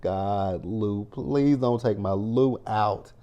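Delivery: slow, pleading, a touch of heartbreak; heartbroken plea. Retold or imitated. Viewer slowly pleads with the show to spare Lou, mildly heartbroken. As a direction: beg slowly for the character to be spared. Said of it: "I was like".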